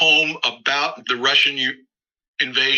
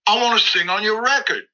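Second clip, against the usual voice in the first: imitating the caller; 9 semitones higher than usual. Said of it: "He says".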